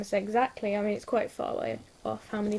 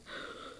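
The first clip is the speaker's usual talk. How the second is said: mock gasp; 15 dB quieter than usual. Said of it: "you're literally like".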